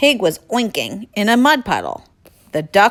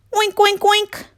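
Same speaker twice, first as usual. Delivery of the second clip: loud oinks; 14 semitones higher than usual. Acted. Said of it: "as loudly as he could".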